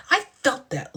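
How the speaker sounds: high, laughing through the words. Real, not acted. Cracking up at the show, laughing. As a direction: let the laugh break in.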